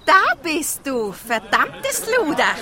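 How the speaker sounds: loud, slow, indignant accusation; outraged outburst. Acted. Hannah confronts Nicole at the funeral, outraged. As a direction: spit the insult out in outrage. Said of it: "Hannah List wirkt schwer empört".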